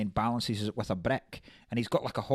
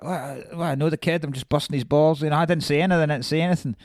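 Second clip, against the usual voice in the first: mild Billy Bats impression; 6 dB louder, faster than usual. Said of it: "Billy Bats is going to De Niro. He's like that".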